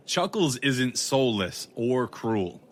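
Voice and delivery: gasp, then slow and indignant; offended gasp. Acted. Detective defending his friend Chuckles, indignant after a gasp. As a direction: take real offence, slowly.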